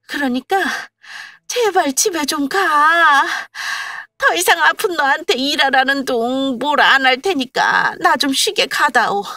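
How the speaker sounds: 높고 큰 목소리로 매달리듯 애원; 제발 좀 가 달라고 사정하듯; 애원하는 시어머니. Acted. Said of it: "거의 애원하다시피". (가볍게 연기한 애원)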